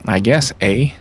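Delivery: mock Canadian accent; imitating a Canadian with a teasing "eh". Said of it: "make fun of my fucking Canadian accent".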